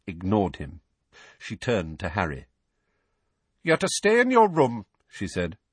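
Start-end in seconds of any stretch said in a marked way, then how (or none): 3.6-4.9 high, strict order; brisk, snappish. Acted. Aunt sending her nephew to his room, snappish. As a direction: lay down the rule sharply. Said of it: "regaining her usual brisk, snappish manner".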